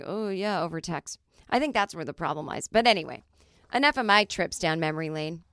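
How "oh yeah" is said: mildly grudging agreement; begrudging. Acted. Someone replying over text to a date, mildly begrudging. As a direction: agree with a touch of reluctance. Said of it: "instead of someone begrudgingly".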